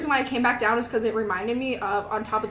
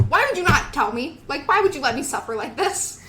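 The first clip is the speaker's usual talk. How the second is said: raised, indignant mock complaint; louder, higher acted-out protest; retold exasperation; 3 semitones higher, 4 dB louder than usual.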